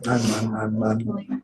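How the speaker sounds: halting, quiet, fighting tears; choked up. Real, not acted. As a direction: voice catching on every word. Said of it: "You're not making it easy".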